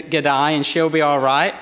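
put-on a light stab at an Australian accent on G'day; playfully faking an Australian accent; hint of a mock Australian accent; faked Australian accent. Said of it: "much as I've tried to fake it saying".

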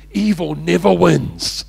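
slow, assured proclamation; confident hero. Acted. Hero answers the villain before execution, slow and confident. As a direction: declare it slowly, with total certainty. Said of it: "with an air of confidence".

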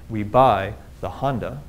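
"We buy the Honda" with beats on BUY and HONda; stress-timed English. Shown as a demonstration. Lecturer contrasts fewer syllables, same timing. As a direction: hit BUY and HONda evenly spaced. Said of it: "we tend to adjust our timing to these stress units".

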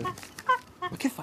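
high, very slow, scandalised cry; shocked. Acted. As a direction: stretch it out in disbelief. Harry shocked at the inspector. (stupore scandalizzato, acuto e lentissimo)

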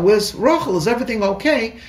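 bursting in to find her; urgent worry. Retold or imitated. Husband rushing in, worried.

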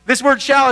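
shall said high and loud with strong intent; stress on shall. Shown as a demonstration. Preacher to congregation, hitting "shall" loud and high. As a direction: lean hard into the word "shall". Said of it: "it speaks with strong intention".

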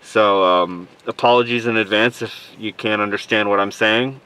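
talking muffled through a mask; stuffy cold voice behind a mask; full face dive mask. Real, not acted. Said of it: "speaking through the mask".

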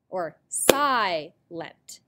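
"silent" slowly split, si, then lent; syllable by syllable. Shown as a demonstration. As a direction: separate the two beats of "silent". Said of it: "The first clap out beat. Watch".

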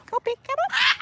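high call across the field; shouting for her bird to fly back. Real, not acted.

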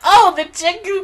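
excitedly agreeing with her friend; squealy eager yeahs; eager recognition. Retold or imitated. Retelling chat with friend.

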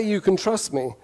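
crisp British English delivery; British accent. Shown as a demonstration. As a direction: say it like a trustworthy Brit. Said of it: "with a British accent".

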